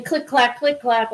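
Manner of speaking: imitating the click clack of the toy; click clack sound. Shown as a demonstration. Showing friends how the toy sounded, rhythmic click clack. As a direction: mimic the balls knocking together. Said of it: "like that".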